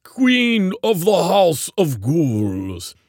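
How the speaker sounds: high, loud, slow creature proclamation; growling. A narrator's reading. Ogbert announcing his witch queen, growling. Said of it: "Ogbert growled".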